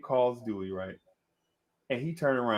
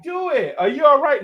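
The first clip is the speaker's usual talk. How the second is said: high worried woman's voice leaning over him; concerned woman; 12 semitones higher, 7 dB louder than usual. Retold or imitated. Babe leans over hurt Dewey, high worried voice. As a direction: sound sweetly concerned. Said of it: "and like".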